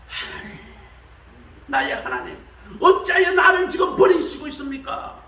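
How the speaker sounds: starts in a hush, then bursts into a loud high cry; anguished shout. Retold or imitated. Preacher voicing Jesus on the cross, shouting to God. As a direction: let it break out like a desperate scream.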